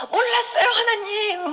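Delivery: high, drawn-out begging cry; high plaintive wail, retold; childlike pleading. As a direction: re-enact begging God like a child. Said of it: "애기가 엄마 아빠한테 막 이렇게 비는 것처럼".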